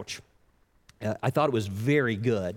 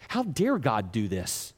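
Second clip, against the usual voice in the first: mock indignation; slower than usual. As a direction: act out being mad at God, weighing each word. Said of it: "Then you start getting mad".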